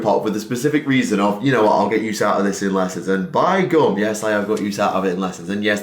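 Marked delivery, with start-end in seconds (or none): 3.3-5.8 lightly played Northern English accent; a touch of stage Northern English; Northernism. Shown as a demonstration. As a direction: lean into Yorkshire dialect, Northern English. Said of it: "there's some Northernism for you".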